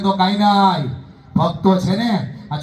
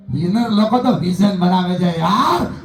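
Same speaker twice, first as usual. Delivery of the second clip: preaching shout; 3 semitones lower, slower than usual. Real, not acted. Motivational speaker exhorting the crowd.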